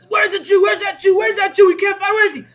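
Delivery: high, loud searching shouts; Cossack shouting. Retold or imitated. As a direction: demand it like a raider hunting.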